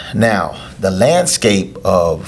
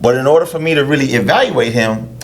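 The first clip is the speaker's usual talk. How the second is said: higher mock voice of a greedy coach; sarcastic trainer voice; 4 semitones higher than usual. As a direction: play the money-hungry trainer, sarcastic. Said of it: "I'm being sarcastic".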